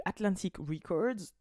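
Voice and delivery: slow, careful English-style "Atlantic Records"; forced American accent. Shown as a demonstration. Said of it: "quand j'essaie de forcer mon accent".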